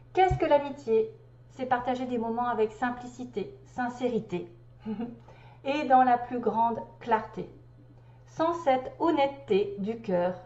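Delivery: measured recital of a spiritual text; deliberate read-aloud delivery; reading a message aloud. Acted. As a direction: read it out phrase by phrase.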